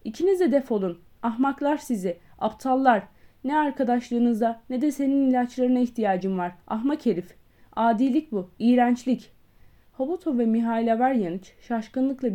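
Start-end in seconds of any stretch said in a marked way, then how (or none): 0.0-7.4 louder, furious insults; a doctor driving out his friends, furious shout; angry shouting. Acted. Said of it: "Andrei Yefimiç bağırmayı sürdürdü". 7.8-9.3 "Adilik bu" shouted louder, with force; shouting. Acted. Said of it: "Andrei Yefimiç bağırmayı sürdürdü".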